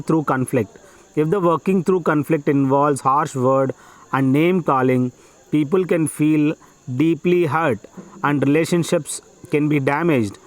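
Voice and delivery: measured, phrase-by-phrase passage reading; dictation reading. Acted. Teacher dictating an exam passage to students, measured dictation. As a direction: read it out slowly in short chunks with pauses.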